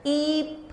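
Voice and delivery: ईप with a long, held ई; long vowel. Shown as a demonstration. Teacher isolating the long sound for children, ईप drawn out. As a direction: stretch the ई in ईप. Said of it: "sound किसका आ रहा है इसमें long".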